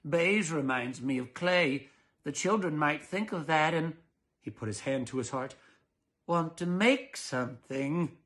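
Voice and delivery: stiff father. Acted. Mr Dollard voiced, hand on heart.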